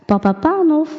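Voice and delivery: high, lilting call. A narrator's reading. Mysterious voice calling the sleeping shoemaker, calling. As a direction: call out to him, pitched well up. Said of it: "riep de stem weer".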